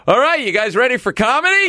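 high, loud emcee call; MC announcing. Retold or imitated. MC calling the crowd to the comedy set. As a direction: hype the room like an MC. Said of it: "the M C goes".

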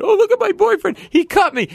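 very high, loud mock shriek; hysterical girlfriend. Girlfriend shrieking about her cut boyfriend. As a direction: wail it like a panicked girlfriend. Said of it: "the girlfriend starts going".

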